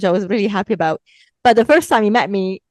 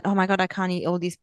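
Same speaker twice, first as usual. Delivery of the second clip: whiny excuse. Retold or imitated. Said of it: "give the excuse that".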